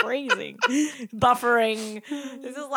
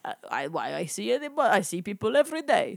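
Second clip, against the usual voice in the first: bad Russian accent; 4 semitones lower than usual. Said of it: "this is not very good accent".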